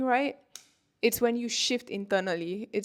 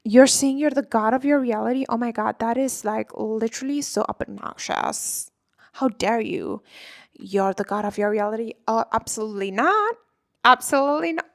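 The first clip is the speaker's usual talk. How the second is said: snooty ego voice; 6 dB louder than usual. Acted. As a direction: play the outraged inner critic, pitched way up. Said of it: "your ego is gonna come in and be like".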